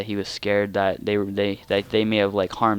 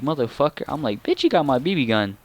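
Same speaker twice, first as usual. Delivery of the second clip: inner outrage; 4 semitones higher than usual. Retold or imitated. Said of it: "in my head, that's what I'm thinking".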